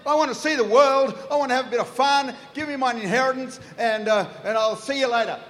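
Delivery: chirpy son, rattling off his request; eager younger son. Acted. Young son asking his father for his inheritance, eager and quick. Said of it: "the younger son walks in and he says".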